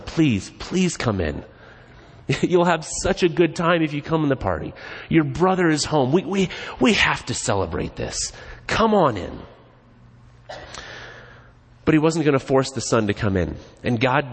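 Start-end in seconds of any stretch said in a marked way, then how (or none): 0.0-9.4 gentle pleading. Retold or imitated. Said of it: "he pleads with his son".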